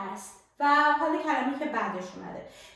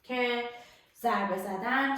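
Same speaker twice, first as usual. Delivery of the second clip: ordinary talk, nothing marked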